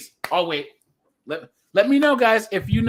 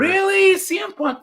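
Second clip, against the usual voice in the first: surprised; 12 semitones higher, 3 dB louder than usual. Real, not acted. Disbelief at friend's favorite wrestler.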